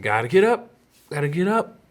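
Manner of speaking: put-on high-pitched kid voice on the rise; mock-urgent plea; imitated insistent son. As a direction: imitate a loopy patient suddenly insisting. Retelling sedated son's renewed insistence.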